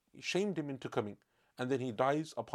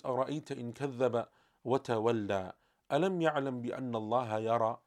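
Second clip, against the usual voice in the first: quick, fluent recited Arabic verse; rapid Quran recitation; much faster than usual. Acted. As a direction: recite it briskly from memory.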